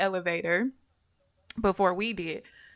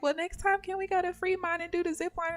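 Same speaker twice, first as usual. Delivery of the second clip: sister asking; 10 semitones higher, 4 dB quieter, faster than usual. Retold or imitated. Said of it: "my sister was like".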